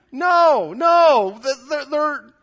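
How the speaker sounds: loud, high-pitched protest; emphatic denial. Real, not acted. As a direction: blurt the refusal out at full volume. Loudly denies kids sit quietly.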